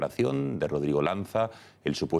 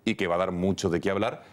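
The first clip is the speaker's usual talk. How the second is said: higher-pitched anchor lead-in to the closing story; news teaser; 5 semitones higher than usual. Acted. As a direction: tease the last story to viewers.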